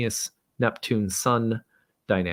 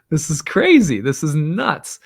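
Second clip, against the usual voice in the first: louder amazed exclamation, higher, slowing at the end; loud disbelief; 7 semitones higher, 8 dB louder than usual. Retold or imitated. Father reacting to his broken cross, loud disbelief. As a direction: burst out in astonishment.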